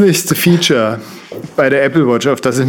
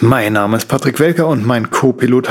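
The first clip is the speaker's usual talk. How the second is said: announcer; 3 semitones higher than usual. Acted. Podcast intro as pilot announcement.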